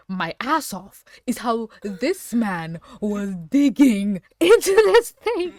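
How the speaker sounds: words breaking into loud laughter, pitch climbing; can't get through it for laughing; laughing hard. Real, not acted. Reacting to the digging scene, laughing uncontrollably. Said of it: "What makes me laugh".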